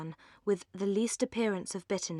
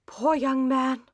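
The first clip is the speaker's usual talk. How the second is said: slow, higher, heartfelt sigh of pity; pitying cry; 5 semitones higher, 5 dB louder, slower than usual. A narrator's reading. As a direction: grieve for the young man. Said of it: "cried Missus Jennings".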